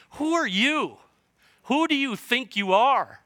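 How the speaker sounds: high, mocking challenge; hammed-up, high-pitched taunt; taunting devil. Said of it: "where the devil is, is speaking to him, going".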